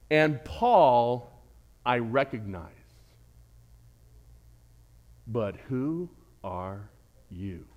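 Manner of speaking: low, slow, fading menace; sinister spirit. Acted. Spirit taunting the exorcists, low and slow. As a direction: drag out the challenge darkly. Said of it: "they know Jesus".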